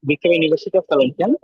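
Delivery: choppy line cutting out; words dropping out over lag; bad connection. Real, not acted. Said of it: "You're cutting out".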